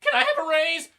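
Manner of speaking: loud, high mock squeak; meek referee pleading. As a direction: squeak out a desperate request. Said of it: "the referee was like".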